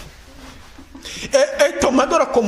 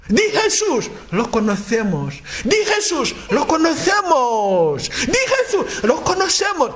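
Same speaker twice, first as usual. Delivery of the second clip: demon-voiced dialogue; 4 semitones higher than usual. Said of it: "respondía, eh, como en conjunto".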